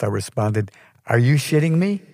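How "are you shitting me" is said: full-blast outrage. A narrator's reading. Applicant exploding at the receptionist over the cancellation, outraged. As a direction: pitch up, demand it in outraged disbelief. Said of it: "Now at full blast".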